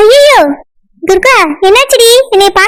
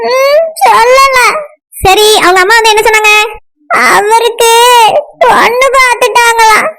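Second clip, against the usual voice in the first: tearful sulk. Acted. Friend pressed to continue her story, tearful sulk. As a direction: sulk through tears, drawing it out. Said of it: "இவ்வளவு அழுகையா".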